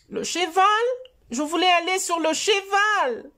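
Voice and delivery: put-on high, whiny little boy voice; child voice. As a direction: plead like a small child. Voix de Choupi. (voix aiguë de petit garçon qui pleurniche)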